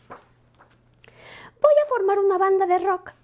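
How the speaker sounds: agudo y lento, con ganas; anúncialo a los amigos; anuncio entusiasta. Acted. Lupo anuncia su banda. (Lupo propone la banda, agudo)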